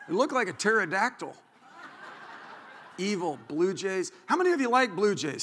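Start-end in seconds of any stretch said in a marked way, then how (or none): none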